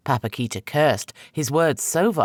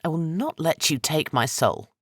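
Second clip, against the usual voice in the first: firm defiant refusal, stress on not; 4 semitones higher than usual. Acted. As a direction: refuse him flatly.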